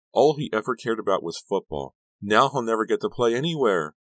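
high, distraught tirade; screaming. A narrator's reading. Girlfriend lamenting Sal's lost football, screaming. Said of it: "Sharon was screaming at him again".

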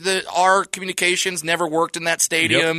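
lightly imitating a breezy quarterback; mock Manning brothers. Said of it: "And they're like".

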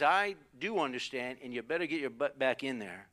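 mild imitation of an unmoved dad; unloving dad. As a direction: lay down the law without sympathy. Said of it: "There was no love in that voice".

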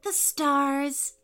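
happy. A narrator's reading. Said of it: "said Poppy happily".

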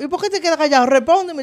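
high mock scold; imitating a parent. Parent scolding a silent child, high mock scold. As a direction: snap it up high like a strict mom. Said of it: "te decían".

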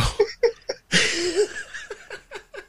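long, high cracking-up laugh; high-pitched laugh. Real, not acted. Storyteller cracks up at cop calling for backup, laughing. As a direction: crack up helplessly.

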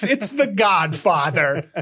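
"It's The Godfather" drawn out slowly, each word weighted; slow down and lean on "The Godfather" like it's obvious; slow emphatic repeat. Shown as a demonstration. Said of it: "It's The Godfather, folks".

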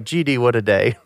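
put-on offhand, calm kid's remark; calm and casual. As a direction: say it casually, like small talk. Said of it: "it was so calm and casual".

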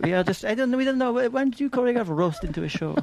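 high mock French accent; playful French diva voice. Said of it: "continuing singer impression".

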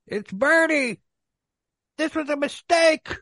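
high, hammed-up townsfolk protest; mock outcry. Townspeople protest Bernie's arrest, in mock outrage.

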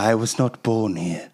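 put-on a slow, lightly done old Englishman in a British accent; old British man voice. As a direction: play Basil, a dusty British curator. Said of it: "the British accent of an old man".

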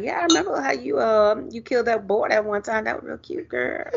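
lightly voiced smooth flirt; flirty mock compliment. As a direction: sweet-talk her, trailing off. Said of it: "he was just like".

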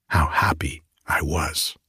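soft wistful whisper. Acted. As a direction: whisper it as a sad memory. Tree remembers lost happiness.

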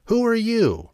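high, small dwarf voice. Acted. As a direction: squeak it like a little dwarf. Dwarf questions stranger.

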